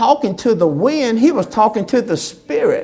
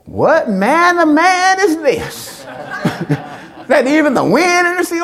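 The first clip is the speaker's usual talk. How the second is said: awed disciples; 5 semitones higher than usual. Acted. Disciples marvelling.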